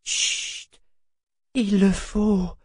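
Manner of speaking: soothe, but leave no choice; slow, tender firmness; gentle but firm. A narrator's reading. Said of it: "doucement mais fermement".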